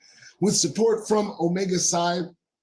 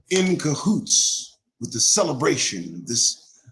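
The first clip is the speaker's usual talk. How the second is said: spoken word poem. Acted. Host reciting poem to black viewers, measured spoken-word. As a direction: perform it like a slam poem, letting lines hang.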